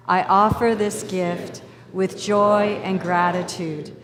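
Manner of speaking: slow, measured prayer read aloud; group prayer. Acted. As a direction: lead the room through the prayer calmly, slowly. Leads the congregation in prayer.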